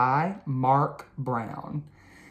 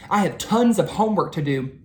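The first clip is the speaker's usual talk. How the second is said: rushed; 3 semitones higher, faster than usual. Acted. Arthur rushed.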